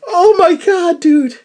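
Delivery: loud, high laughing exclamation; laughing disbelief. Real, not acted. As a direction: crack up in disbelief.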